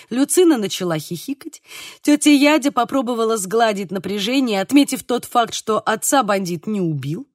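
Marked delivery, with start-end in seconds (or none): none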